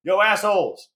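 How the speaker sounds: hammed-up tough talk from the actor playing a soldier; Kirk Lazarus character voice. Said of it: "Robert Downey Junior just pipes up".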